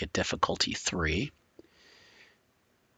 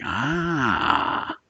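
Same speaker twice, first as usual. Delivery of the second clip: long rising-falling "ahh"; drawn-out "ah"; 7 semitones higher than usual. Acted. Game master voices her nodding along, drawn-out knowing "ah". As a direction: let out a long, higher "ah". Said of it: "kinda nods like".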